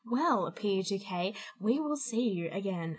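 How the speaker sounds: quiet, slow outro read; lightly done radio sign-off; announcer voice. Acted. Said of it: "And I'm doing their voice again".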